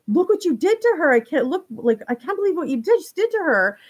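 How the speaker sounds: horrified cry at what he did; retold panic. Christopher freaking out at Trevor, panicked high voice. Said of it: "Christopher's freaking out".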